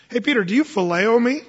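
casual Jesus voice. Retold or imitated.

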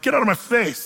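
mock-rude son telling mother off; rude brush-off. Shown as a demonstration. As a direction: shove her away with the words. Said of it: "the way you sort of hear that".

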